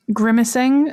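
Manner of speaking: "grimacing" as GRIM-uh-sing, stress up front; GRIM-uh-sing for "grimacing", carefully; corrected grimacing. Shown as a demonstration. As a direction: say "grimacing" slowly with a short "muh". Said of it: "I only realized that".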